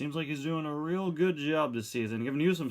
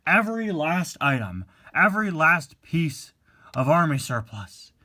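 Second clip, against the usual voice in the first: yelling; 3 dB louder than usual. Acted. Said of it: "what are you yelling about".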